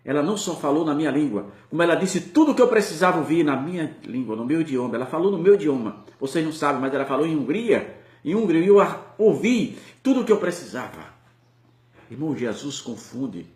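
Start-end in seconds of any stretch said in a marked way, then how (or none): 0.0-11.1 loud, rising proclamation, building on each repeat; fervent testimony. Retold or imitated. Preacher voicing the judge telling the church, loud and fervent. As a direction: declare it like a witness overwhelmed.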